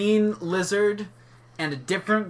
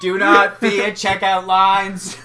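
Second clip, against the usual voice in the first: JFK voice. Retold or imitated. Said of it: "J F K voice".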